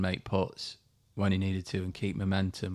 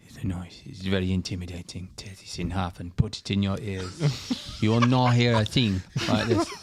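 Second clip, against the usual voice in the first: put-on confiding whisper in a Spanish accent, chuckling at the end; hushed Spanish-accented Seve; 5 dB louder than usual. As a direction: let Seve let you in on a secret, Spanish accent. Seve's advice quoted.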